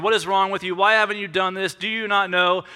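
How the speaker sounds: mildly acted confrontation; a touch of guns-blazing attack; rude, direct accusation. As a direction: fire off accusing questions. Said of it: "rude and direct".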